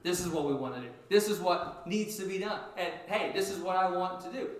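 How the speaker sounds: a mild mock of eager Peter; eager outspoken. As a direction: Peter eagerly pushing his plans on others. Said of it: "He had to be the first one to say".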